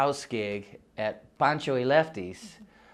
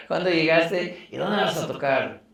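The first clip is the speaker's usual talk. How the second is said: friends asking; 6 semitones higher, 6 dB louder than usual. Retold or imitated. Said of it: "They always ask".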